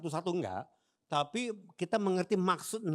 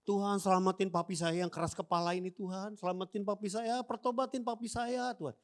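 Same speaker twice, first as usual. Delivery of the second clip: pleading intercession; 4 semitones higher than usual. Retold or imitated. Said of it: "dia lagi doa syafaat".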